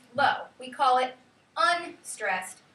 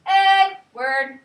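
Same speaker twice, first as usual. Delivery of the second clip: loud, high, long sung-out name; calling to dinner; 6 semitones higher, 9 dB louder than usual. Shown as a demonstration. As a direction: holler the name as if calling a child in. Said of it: "Call it to dinner".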